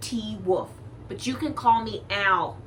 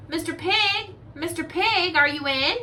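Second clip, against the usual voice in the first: higher sing-song call to the pig; 7 semitones higher than usual. Retold or imitated. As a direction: call politely at the door. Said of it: "I called".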